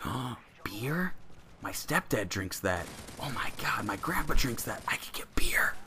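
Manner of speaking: put-on hushed, breathless little-kid whisper; excited kid whisper. Boy whispering to his best friend about beer, hushed. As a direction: whisper it like a thrilled secret.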